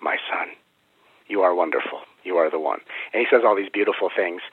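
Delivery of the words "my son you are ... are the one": lightly voiced loving biblical guide, measured pauses; Melchizedek. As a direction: bestow gentle praise like an ancient teacher. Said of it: "That's exactly how he sounds".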